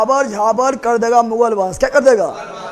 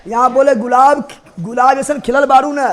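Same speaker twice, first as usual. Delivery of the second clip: louder teaching call with the song phrase; loud mnemonic; 4 dB louder than usual. Shown as a demonstration. Teacher calling the class to attention, loud. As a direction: belt out गुलाब जैसन खिलल बारू to grab the class. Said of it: "यहाँ ध्यान दो".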